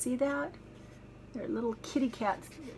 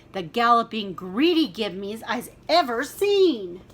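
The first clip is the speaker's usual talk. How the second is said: angry roar; 6 dB louder than usual. Acted. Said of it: "he roared".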